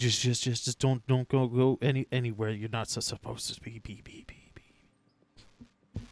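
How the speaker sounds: booming, very loud, echoey doubled voice, stuttering. Speaker, wishing for a voice mod, voices a warning to the group: doubled, echoey voice. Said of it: "like the voice is like doubled, tripled on itself, kind of echoey".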